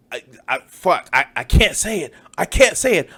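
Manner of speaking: stammering, hammed-up struggle to hold back; mock agonized restraint. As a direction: act out straining against temptation, building. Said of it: "like that meme of just like".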